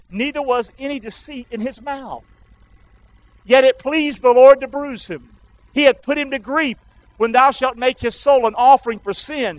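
emphatic pulpit Bible reading; scripture reading. Real, not acted. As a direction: proclaim the prophecy to the congregation. Reads scripture aloud.

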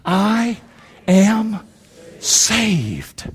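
one word at a time with long pauses; spaced out for others to echo; slow declaration. Shown as a demonstration. Preacher asks congregation to say it with him, slow declaration.

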